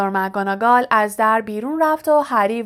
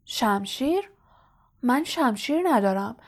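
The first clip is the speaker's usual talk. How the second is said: softer, puzzled murmur; quietly; 5 dB quieter than usual. Acted. Lockhart softly wonders about the sword, softer and dazed. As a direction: say it softly, lost and confused. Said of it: "لاکهارت آهسته گفت".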